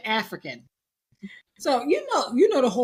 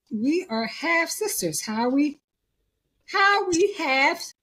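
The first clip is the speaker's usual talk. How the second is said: slow, halting question climbing higher at the end; baffled disbelief; 3 semitones higher than usual. Retold or imitated. Sisters reacting to their DNA test result, baffled disbelief. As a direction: spell it out slowly in mock bewilderment. Acting out sisters' shocked discovery.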